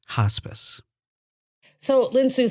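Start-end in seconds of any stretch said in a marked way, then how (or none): 0.1-0.8 hospice breathed out quietly and softer, almost voiceless; a hushed, fearful hospice. Shown as a demonstration. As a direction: say hospice like a dreaded word. That feared word, hospice.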